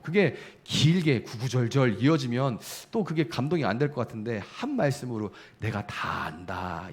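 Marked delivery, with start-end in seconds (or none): 5.6-6.9 low, soft and very slow; gentle divine voice. Acted. The Holy Spirit gently comforting the weeping believer, low, soft and slow. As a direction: say it softly and slowly, like a comforting father.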